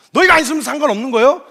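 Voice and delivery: mock irritation. Jesus losing patience with Peter, mock-irritated. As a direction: snap with acted, mild annoyance. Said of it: "짜증이 나신 거예요".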